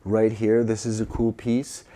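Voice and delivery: soft, calming undertone; hushed. Real, not acted. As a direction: speak softly after a calm piece of music. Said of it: "I'm whispering 'cause it's, like, kind of calming".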